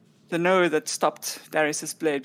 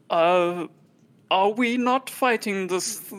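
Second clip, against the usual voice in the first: slow, wary puzzled question; suspicious; slower than usual. Acted. Companion questioning why nobody is fighting, suspicious. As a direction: drag it out with suspicion. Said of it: "suspiciously look at".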